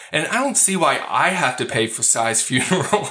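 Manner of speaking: mildly aggrieved, half-laughing protest; a touch of mock grievance; complaining. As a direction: lightly act out a put-upon man. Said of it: "He's now complaining to the rabbi".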